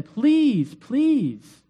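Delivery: begging. Retold or imitated. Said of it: "you know, he's begging".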